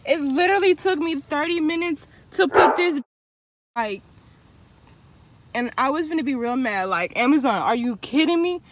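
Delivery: breathless and fast; panting after hard work; out of breath. Real, not acted. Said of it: "As you can tell, I'm out of breath".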